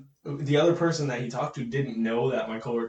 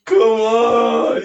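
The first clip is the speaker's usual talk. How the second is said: high, loud, drawn-out whine through laughter; real cracked-up exasperation; laughing protest; 6 semitones higher, 9 dB louder, much slower than usual. Real, not acted. Friend protesting the screamed joke, loud laughing whine.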